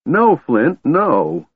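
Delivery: high, loud anguished cry; a kender screaming over his dead friend. A narrator's reading. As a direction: scream his name in grief. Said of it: "Screaming wildly".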